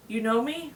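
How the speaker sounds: "You know me" with a rising question; mildly wondering question on "You know me". A narrator's reading. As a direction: ask "You know me", lifting toward the end. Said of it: "Mimi asked".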